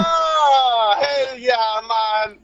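put-on Jamaican accent; joke Jamaican accent. Guest answering about his brethren, mock Jamaican. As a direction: agree heartily in mock Jamaican. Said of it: "are you also Jamaican now".

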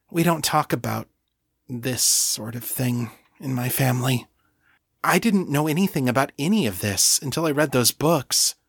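Kashani, flustered. Acted. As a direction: lift the voice into a flustered, apologetic Kashani.

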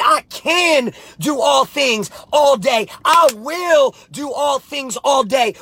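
slow, shouted scripture; slow shouted declaration. Acted. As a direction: proclaim it like a battle cry. Quoting scripture as a rallying cry.

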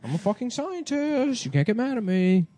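high, slow, exasperated; high whiny insistence. Pretend. Acted scientist bit, high and slow.

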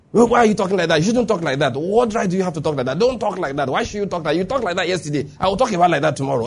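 imitating a tit-for-tat argument; mock bickering. Preacher mimics two people arguing without Scripture, mock bickering. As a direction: run the retorts together like a petty squabble. Acting out a back-and-forth argument.

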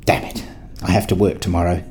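whispered, annoyed curse to yourself; frustrated whisper. Acted. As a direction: hiss it out, late at night and fed up. Alone at night, frustrated.

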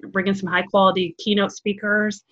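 ordinary talk

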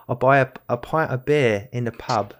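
put-on a playful British pub-goer accent. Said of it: "I can do a, a British accent".

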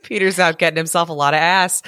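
joking through a laugh. Real, not acted. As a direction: laugh while saying it. Joke while laughing.

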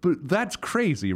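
high, slow disbelief; stretched-out disbelief; incredulous. Real, not acted. Disbelief at friend's text.

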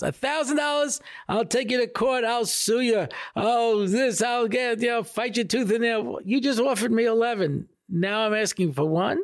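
high, indignant mock rant, pitched well up; indignant outburst. Driver rants at the man who hit his car, high and indignant. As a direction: play the outraged driver who feels cheated. Driver outraged at reduced offer.

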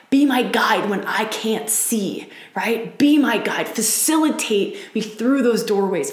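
earnest pleading prayer; calling on the mystic in an intense prayer. Shown as a demonstration. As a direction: pray it out with full intensity. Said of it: "This is a really intense prayer".

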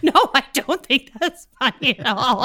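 lightly voiced offended drunk; mock sulky reply. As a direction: say it like a sulking drunk. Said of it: "he was like".

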